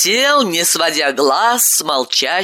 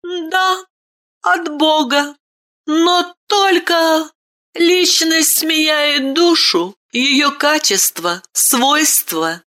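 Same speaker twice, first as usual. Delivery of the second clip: put-on much higher child's voice, calm and measured; a boy gently explaining the soul; boy speaking quietly; 9 semitones higher than usual. A narrator's reading. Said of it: "Мальчик вымолвил тихо".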